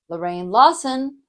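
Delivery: "Lorraine Lawson" with "Lawson" lifted and emphasized; emphatic "Lorraine Lawson", leaning on the surname; name with varied pitch. Shown as a demonstration. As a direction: punch "Lawson" after "Lorraine". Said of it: "different pitches".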